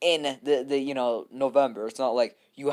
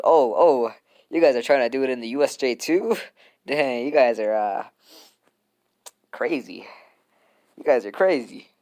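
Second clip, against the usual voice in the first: mock disbelief; 5 dB louder than usual. Teasing fans, mock disbelief.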